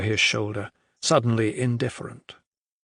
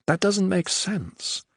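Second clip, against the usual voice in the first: high, slow bewildered protest; baffled; 8 semitones higher, slower than usual. Acted. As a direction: say it utterly baffled. Adair baffled.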